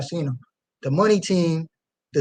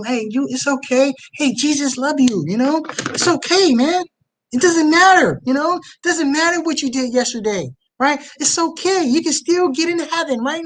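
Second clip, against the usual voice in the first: mock smooth preacher; 8 semitones higher than usual. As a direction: coo it like a fake gentle preacher. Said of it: "to speak smoothly and tell them".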